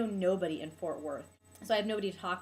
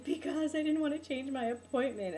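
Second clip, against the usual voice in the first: higher-pitched acted self-justification; retold protest; 6 semitones higher than usual. Patient answering staff on the table, high retold protest. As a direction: replay your own protest in a raised pitch.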